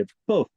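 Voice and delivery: "पुफ" cut off after the f; correct pronunciation. Shown as a demonstration. Teacher repeating the model for students, correct "पुफ". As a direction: say "पुफ" as a single syllable. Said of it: "आप इसको बस पुफ बोलेंगे".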